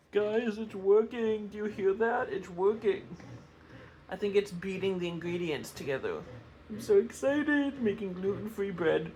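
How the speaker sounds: soft, thrilled whisper-talk; hushed excitement. Real, not acted. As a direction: whisper your delight to viewers. Whispering excitedly over machine.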